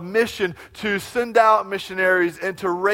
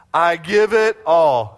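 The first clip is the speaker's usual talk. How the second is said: I give it all again slow and loud, leading the room; said with the congregation; 8 dB louder, slower than usual. Shown as a demonstration. Pastor repeating with the congregation, slow emphatic call. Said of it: "Will you say that with me?".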